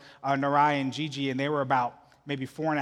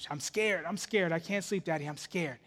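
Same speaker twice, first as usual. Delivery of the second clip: soft, lightly voiced little girl; a hint of a small scared kid; imitated scared child; 5 dB quieter than usual. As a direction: quietly plead like a child to daddy. Imitates daughter out of bed again.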